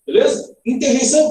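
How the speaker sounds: ordinary talk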